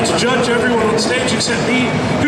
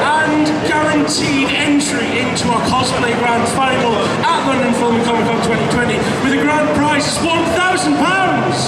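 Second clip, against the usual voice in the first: booming prize announcer; 2 semitones higher than usual. Acted. Host announcing cosplay prizes.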